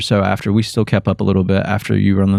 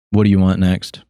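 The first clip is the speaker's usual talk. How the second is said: mildly fed-up counter worker; toneless, can't-be-bothered service question, lightly imitated; imitating bored worker; 3 semitones lower than usual. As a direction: lightly mimic someone who hates the job. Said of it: "She's literally said it just like that".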